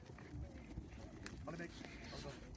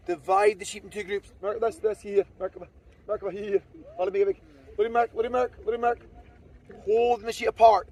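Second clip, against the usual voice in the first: 1 raised calling voice; 6 dB louder than usual. Real, not acted. Shouting commands over the flock.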